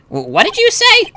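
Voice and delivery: very high, stammered disbelief; shocked judge. Acted. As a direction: squeak out the affronted question.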